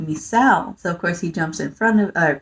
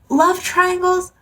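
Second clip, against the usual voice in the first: much higher, slow, sneering lilt; disdainful question; 11 semitones higher, slower than usual. Real, not acted. Reviewer listing shoujo tropes she hates, scornful.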